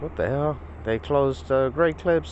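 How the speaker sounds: stunned the shop closed on him; disbelief. Real, not acted.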